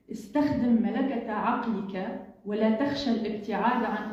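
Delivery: measured poetry reading, phrase by phrase; poem recital in Arabic. Acted. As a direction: recite the verses with pauses between lines.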